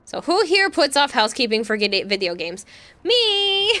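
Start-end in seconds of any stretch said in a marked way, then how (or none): 3.0-3.8 high eager shout then laugh; excited shout. Real, not acted. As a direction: blurt it out, thrilled. Eagerly answers chat question.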